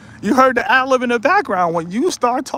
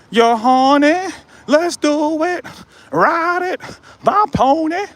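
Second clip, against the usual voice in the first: mock seductive; 6 semitones higher, slower than usual. Mocking gigolo.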